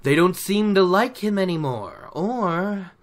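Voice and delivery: a lightly voiced sly storyteller, hinting; sly gleeman Tom. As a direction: slip the hint in sideways, knowingly. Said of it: "He's like".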